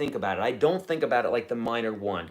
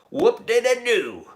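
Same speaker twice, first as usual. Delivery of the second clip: sarcastic; 9 semitones higher, 6 dB louder, slower than usual. Real, not acted. Mocking copyright claimers.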